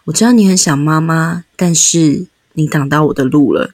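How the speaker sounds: put-on calmly block the child, no softness; stern teacher. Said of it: "没有，听起来很可怕欸。".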